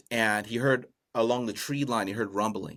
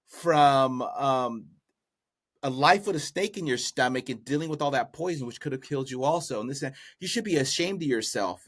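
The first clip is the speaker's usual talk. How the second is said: mildly indignant telling-off, pitch raised; scolding wife; 3 semitones higher than usual. Retold or imitated. Wife shames husband for betraying the crane, mildly scolding. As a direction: scold him, voice a little higher. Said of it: "she was going off on him".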